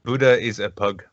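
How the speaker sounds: measured, matter-of-fact retort; deadpan comeback. Acted. Dankula answering the vegan, imitated deadpan comeback. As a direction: state it plainly, pausing between sentences. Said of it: "his response to the vegan".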